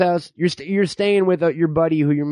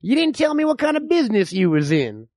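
lightly voiced distrustful old-timer; folksy backwoods codger spinning tales; old man; 2 semitones lower than usual. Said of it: "I'm the old man".

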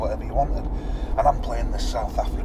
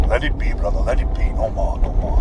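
put-on louder South African accent, breaking up a fight; 6 dB louder than usual. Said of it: "in this South African accent".

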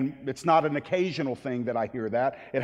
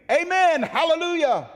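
very high, loud shout of praise; soaring acclamation, each word held out; worshipful cry; 13 semitones higher, 5 dB louder than usual. Acted. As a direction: cry it out in worship before the throne. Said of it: "worshiped God who was seated on the throne".

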